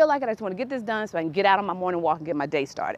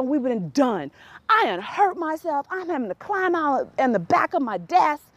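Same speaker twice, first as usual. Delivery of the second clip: exasperated disbelief; 6 semitones higher than usual. Retold or imitated. Exasperated at mother over fax.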